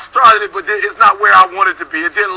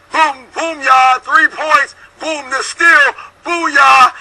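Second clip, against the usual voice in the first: excited shout; 3 semitones higher, much slower than usual. Real, not acted. Hyping Reggie Miller's comeback.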